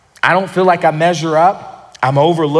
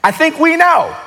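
exasperated fisherman pushing back, higher; Peter protesting; 5 semitones higher than usual. Retold or imitated. Peter protesting to Jesus, exasperated. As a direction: plead like a tired fisherman who knows better. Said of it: "Peter's making his face like".

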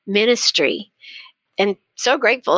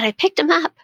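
imitating a proud, excited little boy, higher; excited child; 7 semitones higher than usual. Grandson proudly finishing his story to Mimi, excited. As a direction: retell the triumphant ending with eager lift. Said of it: "he was so excited".

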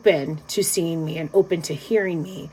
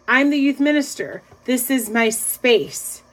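raised start, then slow "This is my space"; firm, deliberate; 3 semitones higher, slower than usual. Retold or imitated. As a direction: state it slowly and firmly, retold. Firmly repeats her words to him.

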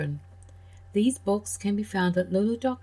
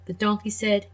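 put-on gentle storyteller voice for kids; children's story reading. A narrator's reading. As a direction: read it like a bedtime tale. Reads fairy tale to children.

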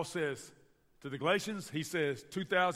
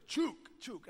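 mock Spanish accent; 10 semitones higher than usual. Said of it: "He goes".

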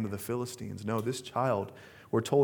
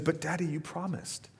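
put-on cute little girl voice; 4 semitones higher, 7 dB quieter than usual. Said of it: "the little, like, cute voice".

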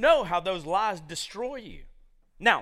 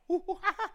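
jungle animal call. Retold or imitated. Imitates jungle noise after "it's a jungle.

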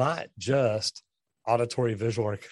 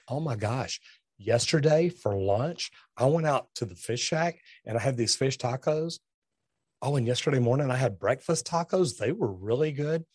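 rambling wife. Retold or imitated. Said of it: "she's like".

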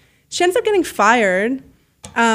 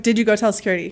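all-business voice; faster than usual. Retold or imitated. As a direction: drop the niceness and mean business. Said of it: "then my voice, I'm like".

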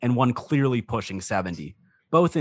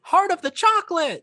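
put-on high-pitched, heartfelt old dragonborn cry; old man proclaiming; 3 dB louder than usual. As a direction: proclaim it in a high elderly character voice. Old man proclaims his belief.

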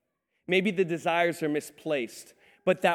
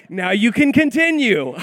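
tag; 3 semitones higher, 6 dB louder than usual. Retold or imitated. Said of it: "my son Jacob's like".

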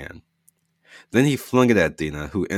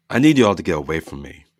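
urgent; 7 dB louder, faster than usual. Acted. Dina's arm going numb.

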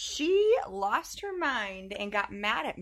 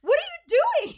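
high loud mock yell of alarm; 8 dB louder than usual. Mom retelling catching Teddy hiding more chapsticks, shouting. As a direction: bust the kid. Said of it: "And I'm like".

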